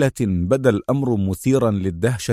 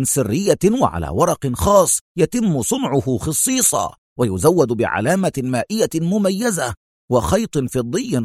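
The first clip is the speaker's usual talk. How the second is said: higher-pitched, lively disbelieving explanation; lightly voiced animated consul; 5 semitones higher than usual. Consul lecturing Mona on how banknotes are printed, mildly agitated. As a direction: argue it point by point, emphatically.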